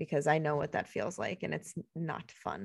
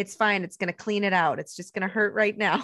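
breezy therapist; 4 semitones higher, 5 dB louder than usual. Retold or imitated. Therapist brushing off pain.

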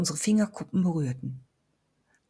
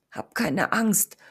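rasping groan; slower than usual. Acted. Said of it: "stöhnte ich röchelnd hervor".

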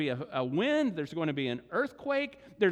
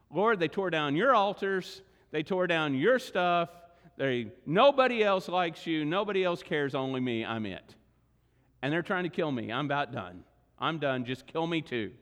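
despairing prophet; 3 semitones lower, 4 dB louder than usual. Acted. Preacher voices despairing Elijah.

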